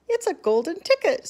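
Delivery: high, loud shriek of amazement; excited scream. A narrator's reading. Shopkeeper screaming at the sight of the golden ticket, loud and high. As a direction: shout it out in disbelief. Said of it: "screamed the shopkeeper".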